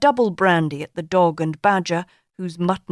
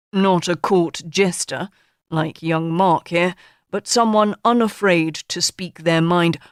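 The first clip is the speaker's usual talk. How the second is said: pompous tycoon. Acted. Sir Jack lecturing his interviewee, lightly voiced pompous boss. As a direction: hold court like a self-satisfied magnate.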